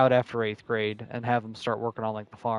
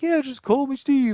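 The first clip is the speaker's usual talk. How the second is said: mock janitor voice; 13 semitones higher, 4 dB louder than usual. Imitating the janitor's casual offer.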